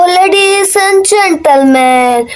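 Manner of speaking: slow, drawn-out announcer call; host announcement. Acted. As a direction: stretch it like a stage host.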